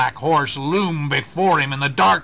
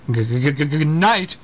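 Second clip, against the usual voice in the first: stammering the G over and over, frightened; a timid rider's shaky goodnight; quivery voice. Acted. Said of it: "he called in a quivery voice".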